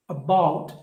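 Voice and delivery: "About" with a weak first "A"; stress on second syllable. Shown as a demonstration. Teacher showing weak prefix, "About" stressed on "bout". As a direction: pass over "A", land on "bout" in "About". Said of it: "We don't stress this".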